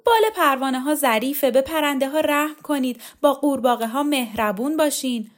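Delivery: high-pitched, projected imitation of a delicate speaker; thin, high voice. A narrator's reading. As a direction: put on a thin high voice for a quoted appeal. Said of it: "با صدای نازکی گفت".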